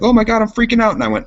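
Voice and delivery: high-pitched imitation of panicking coworkers; mock freak-out. Coworkers panicking when power went out, mock freak-out. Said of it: "everybody went into freak out mode".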